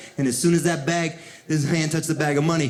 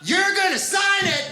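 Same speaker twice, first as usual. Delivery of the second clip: squeaky high lieutenant voice; 12 semitones higher than usual. Retold or imitated.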